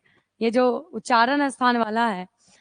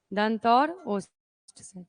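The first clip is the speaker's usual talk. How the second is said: slow, softer repeat for students to note down; slow dictation; 2 semitones lower, 3 dB quieter, much slower than usual. Shown as a demonstration. Teacher repeating slowly so students can write it down. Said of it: "teacher repeats slowly for dictation".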